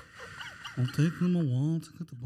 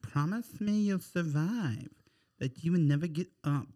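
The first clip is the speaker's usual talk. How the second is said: solemn plea; 2 semitones lower than usual. Acted. Jack's dying plea, slow.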